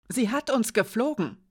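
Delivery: bright, eager insistence; eager insisting. Acted. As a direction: Edik swears it's true, keen. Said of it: "wiederholte Hiraya flach". (eifrig beteuernd)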